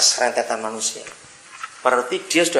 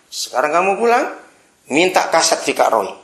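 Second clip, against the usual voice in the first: eager father; 5 semitones higher, 4 dB louder than usual. Retold or imitated. Father urging son on phone.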